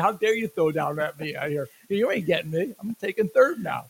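mock indignant boast. Ballplayer taunting the pitcher who threw at him, mock indignant. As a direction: talk back like an affronted base stealer. Voicing an affronted base stealer.

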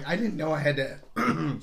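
slow line cut short by a failing voice; need to clear the throat mid-sentence; losing voice. Real, not acted. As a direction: voice starting to give out. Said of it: "sorry, losing my voice here".

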